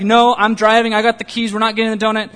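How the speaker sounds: imitating a husband putting his foot down; mock firm refusal. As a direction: lay down the law, half in jest. Retold firm refusal to wife.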